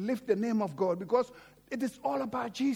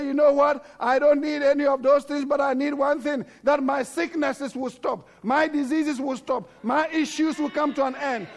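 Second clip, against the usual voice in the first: determined woman; 3 semitones higher, 6 dB louder than usual. Retold or imitated. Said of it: "But this woman said".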